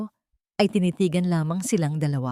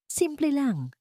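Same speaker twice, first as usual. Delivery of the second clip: sneering sister; 9 semitones higher, 4 dB quieter, slower than usual. Acted. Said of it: "sabi ni Katrina".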